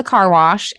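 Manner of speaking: "car wash" with a hard R in car. Shown as a demonstration. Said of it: "definitely a hard R".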